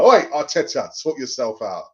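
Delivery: mock telling-off. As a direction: give the boss a cheeky telling-off. Calling out Arteta.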